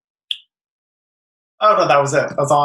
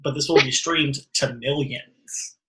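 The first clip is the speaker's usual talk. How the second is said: mock grand; 3 dB quieter, slower than usual. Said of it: "And I was like".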